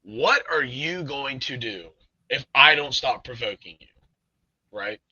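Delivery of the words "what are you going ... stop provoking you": retold angry challenge; measured, pointed defiance stressing YOU and I; pissed off. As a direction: challenge it, annoyed but not shouting. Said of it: "I'm pissed at this point".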